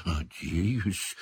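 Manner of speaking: shaky, timid, very quiet reply; trembling voice. A narrator's reading. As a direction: answer in a frightened tremble. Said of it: "дрожащим голосом ответил Невилл".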